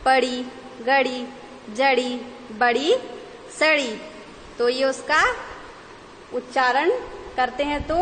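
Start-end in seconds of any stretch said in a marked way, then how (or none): 0.1-3.9 flapped ड़ in each word, पड़ी to सड़ी; word list with a flicked retroflex ड़; nukta flap words. Shown as a demonstration. Teacher reading out nukta examples, each ड़ clearly flapped. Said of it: "नुक्ता बिंदु लगा देंगे".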